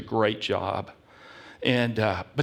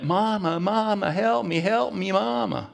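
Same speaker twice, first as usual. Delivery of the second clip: mock crying call; 7 semitones higher than usual. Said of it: "he's crying, and he's yelling out".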